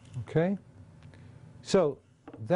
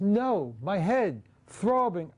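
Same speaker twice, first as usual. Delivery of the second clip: anguished cartoon victim; 6 semitones higher, much slower than usual. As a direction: voice climbing high into a strained cry. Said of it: "this poor, decent human being goes".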